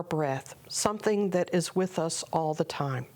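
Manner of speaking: calm, measured meditation guide with long pauses; guided meditation. Acted. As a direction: unhurriedly guide listeners into prayerful stillness.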